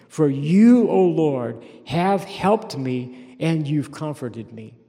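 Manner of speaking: loud earnest plea to God; fervent preaching as David; voicing David's prayer. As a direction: cry out for a sign.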